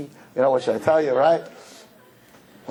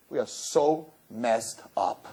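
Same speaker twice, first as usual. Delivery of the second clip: slow, softer rue; rueful confession; 2 semitones lower, 6 dB quieter, much slower than usual. Real, not acted. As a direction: admit it quietly. Quiet confession.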